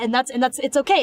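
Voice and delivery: usual speaking voice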